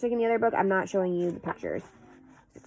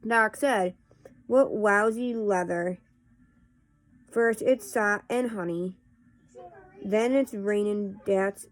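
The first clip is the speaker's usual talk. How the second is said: casual read-aloud of nonsense verse; poetry reading; slower than usual. Acted. Host reading Runny Babbitt poems to viewers, measured poetry reading. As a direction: read silly verse line by line, with pauses.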